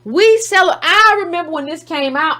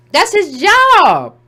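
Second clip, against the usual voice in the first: slow deadpan; 5 semitones higher, 5 dB louder, much slower than usual. Real, not acted. Punchline after scoff.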